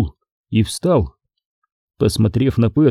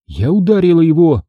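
stern reply; 6 semitones higher, 4 dB louder than usual. A narrator's reading. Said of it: "сурово ответила она".

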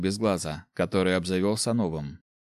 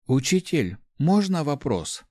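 put-on higher, slower girl's voice; a lightly voiced young girl asking; timid girl; 6 semitones higher, slower than usual. Girl calling after the teacher, higher and hesitant. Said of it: "произнесла девушка в спину преподавателю".

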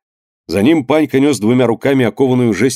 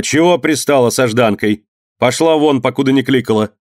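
angry shout; 2 semitones higher than usual. Acted. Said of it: "Крикнула на неё Анна".

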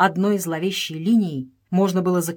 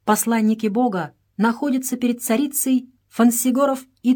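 solemn; 4 semitones higher than usual. Acted. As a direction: proclaim it like a royal decree. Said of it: "сказала торжественным голосом".

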